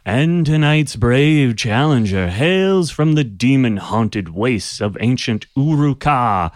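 booming announcer, slow, high and loud; magically amplified voice. Acted. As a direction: herald the challenger, big and drawn out. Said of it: "the voice once again booms".

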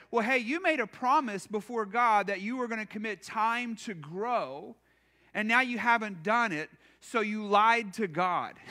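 blunt, accusing pastor's rebuke; harsh accusation. Shown as a demonstration. Pastor scolding the congregation for broken promises, mildly harsh. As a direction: lay the guilt on them, half in jest. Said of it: "That's a really harsh way to".

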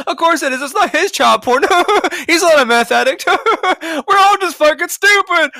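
high, mocking talk broken by laughter; sarcastic laughing. Real, not acted. Host scoffing at Hunter Biden laptop headline, sarcastic laughter. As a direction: laugh through it in mock disbelief.

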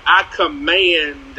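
slow, drawn-out "I command"; mock commanding. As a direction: lightly parody a bossy prayer warrior. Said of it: "throwing around these words like".

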